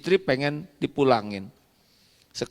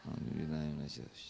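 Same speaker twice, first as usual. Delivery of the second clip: much softer, fast and low; hurried muttered prayer; 11 semitones lower, 19 dB quieter, much faster than usual. Acted. Husband to nagging wife, mumbled fast prayer. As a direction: rush the prayer under your breath.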